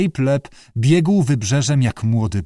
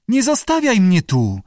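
high wailed plea, lightly acted; sobbing; 9 semitones higher, 3 dB louder than usual. A narrator's reading. Lee fears being left behind, sobbing. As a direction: plead much higher, close to tears. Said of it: "Załkała Lee".

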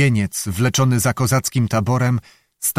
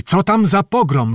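repeated question pitched much higher, stress on tam; calling out louder; 7 semitones higher than usual. Acted. The lieutenant calls to Zachar from the window, higher and louder. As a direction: call the question out again, more eagerly. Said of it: "wołał do Zachara".

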